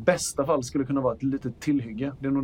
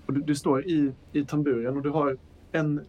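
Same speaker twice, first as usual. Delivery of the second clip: usual speaking voice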